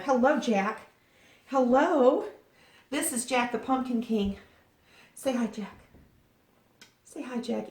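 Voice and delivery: high-pitched pet greeting; cooing to a pet. Real, not acted. Greeting and introducing a pet cat.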